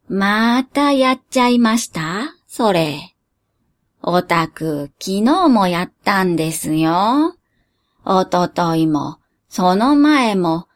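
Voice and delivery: lightly voiced tired old genie; weary genie. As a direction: sigh it out, fed up.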